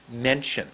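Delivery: "Mention" with a long first vowel; a deliberate, drawn-out "Mention"; lengthened word. Shown as a demonstration. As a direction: set the lips, then stretch "Mention". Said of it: "I went like this".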